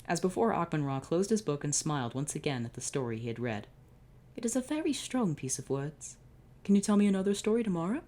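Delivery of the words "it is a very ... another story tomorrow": high, quick, eager plea; a boy begging for more; eager kid. Acted. Excited blonde boy begging the pharaoh for another story.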